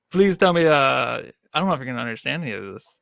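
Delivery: put-on half-committed Cajun accent; Cajun accent attempt. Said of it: "see if I can do this accent".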